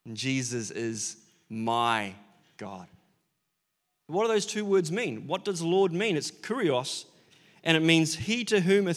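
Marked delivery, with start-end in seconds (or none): 0.1-2.9 reverent confession. Retold or imitated. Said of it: "he would have said".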